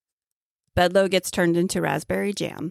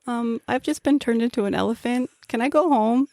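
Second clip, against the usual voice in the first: Emperor's New Groove voice; 5 semitones higher than usual. Retold or imitated. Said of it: "that scene from Emperor's New Groove".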